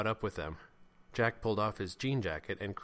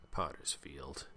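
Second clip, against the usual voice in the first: low, soft mutter; sunk, barely projected mumble; 6 semitones lower, 8 dB quieter, slower than usual. A narrator's reading. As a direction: mutter it darkly to yourself. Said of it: "muttered Jeremy".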